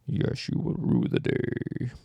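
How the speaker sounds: breathy slow monster whisper; creepy whisper. Pretend. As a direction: hiss it slowly like a lurking creature. Whale answers in creepy voice.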